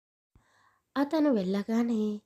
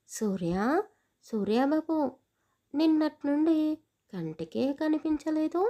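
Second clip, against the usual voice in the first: grandmother calling out; 2 semitones higher than usual. Acted. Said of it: "అతన్ని పిలుచుకుంటూనే".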